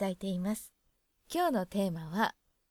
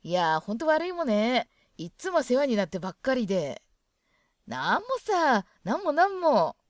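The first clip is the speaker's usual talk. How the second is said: louder, chummy dialect read; friendly Hokkaido exchange; 5 dB louder than usual. Shown as a demonstration. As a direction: play two locals brushing off thanks. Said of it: "どさんこ同士だと". (北海道弁で大きめに気さくな掛け合い)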